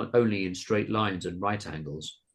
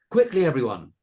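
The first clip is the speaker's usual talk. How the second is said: raised, urgent shout; 5 semitones higher, 7 dB louder than usual. A narrator's reading. Carolina warning the children at the farm, shouted. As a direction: shout out to rally everyone. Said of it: "Carolina shouted".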